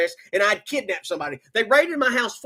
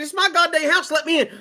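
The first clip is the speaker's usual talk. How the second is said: higher, heated demand at the door; raised, indignant insistence; retold angry demand; 5 semitones higher than usual. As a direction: insist hotly on getting into your own house. Arguing with cop at door.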